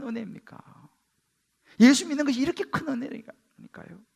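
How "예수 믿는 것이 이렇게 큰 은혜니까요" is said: normal talking voice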